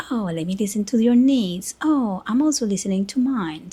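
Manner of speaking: lightly sarcastic mock concern. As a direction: play up the considerate listener, tongue in cheek. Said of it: "I'm being very sarcastic here".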